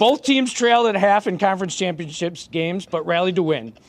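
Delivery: measured sports bulletin read; formal read-out. Real, not acted. Co-host reading Grey Cup facts to the panel, formal read-out. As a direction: read out the match preview formally. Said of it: "Why are you talking like this?".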